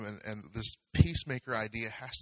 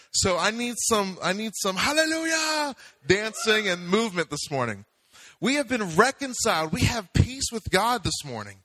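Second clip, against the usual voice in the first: loud, high, rousing pulpit voice; rally the congregation with full energy; fired-up preaching; 7 semitones higher, 5 dB louder than usual. Real, not acted. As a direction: exuberant raised-voice proclamation.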